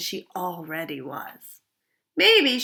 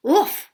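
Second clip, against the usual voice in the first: mumbled oof; 10 semitones higher, 6 dB louder than usual. Acted. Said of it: "she mumbled".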